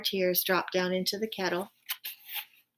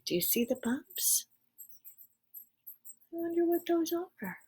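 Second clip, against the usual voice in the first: soft aside; 10 semitones higher, 6 dB quieter than usual. Real, not acted. Aside to child listeners.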